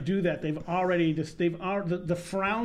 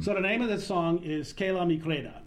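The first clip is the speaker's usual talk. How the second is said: Brooklyn accent. Shown as a demonstration. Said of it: "I do it with my dad's Brooklyn accent".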